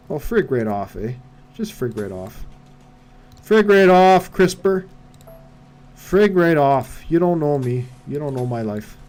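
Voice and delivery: lightly put-on Canadian accent, drawn-out words. Streamer mock-telling off a chat heckler, Canadian accent. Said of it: "sound like a Canadian".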